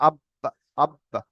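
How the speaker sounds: আব্বা with the ب held, then released in a short echo; qalqalah bounce. Shown as a demonstration. Teacher showing students qalqalah, আব্বা with a bouncing b. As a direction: close on the b of আব্বা, then let it bounce lightly. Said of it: "এটাকে শর্টে করা হয়েছে".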